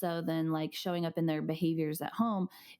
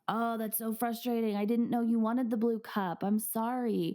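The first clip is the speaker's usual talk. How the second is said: validating; 4 semitones higher than usual. Retold or imitated. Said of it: "first validating".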